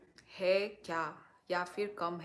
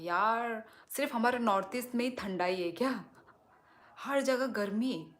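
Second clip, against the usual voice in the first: higher, louder and quick, playful complaint; mock outrage; 3 semitones higher, 4 dB louder than usual. Real, not acted. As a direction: protest about the heat with lively indignation. Complaining about heat everywhere. (ऊँची, तेज़ आवाज़ में बनावटी शिकायत)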